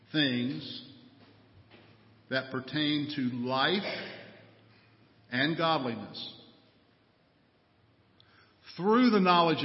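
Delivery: measured, emphatic pulpit reading; scripture reading. Real, not acted. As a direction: read the verse aloud to a congregation, stretching key words.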